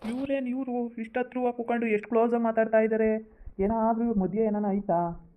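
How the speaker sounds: lightly voiced nosy relative; suspicious brother-in-law. Second character voice, suspicious aside.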